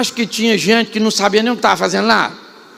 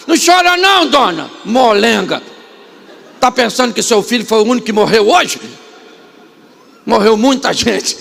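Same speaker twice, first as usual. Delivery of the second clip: mock harsh scolding. Jesus imagined scolding the weeping mother as a weakling, harsh mock. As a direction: scold the widow like a callous boss. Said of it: "Ele também poderia falar".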